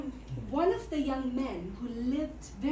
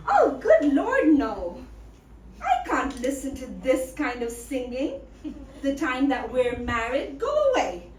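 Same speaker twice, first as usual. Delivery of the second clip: indignant refusal; 3 semitones lower, 4 dB louder than usual. Acted. She rejects the howling suitor.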